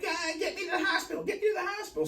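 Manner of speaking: pleading with a laugh. Retold or imitated. Begging cops for hospital, laughing.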